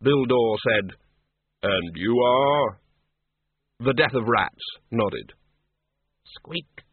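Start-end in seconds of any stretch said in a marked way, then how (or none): 1.6-2.8 slow and grave, unhurried; Death's slow, measured voice. Acted. Death greets the tiny Death of Rats, slow and grave. 6.2-6.8 a small, high, very soft squeak; tiny rat squeak. Acted. Death of Rats answers Bill Dore, a soft squeak.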